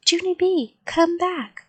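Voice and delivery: put-on mother's high-pitched call after her child. A narrator's reading. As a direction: call the child back from a distance. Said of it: "called Mother".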